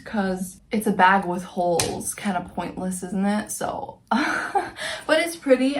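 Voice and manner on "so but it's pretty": high, slow, laughing through the words. Real, not acted. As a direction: laugh off the flaw, then defend it. Admits bag flaw, laughs it off.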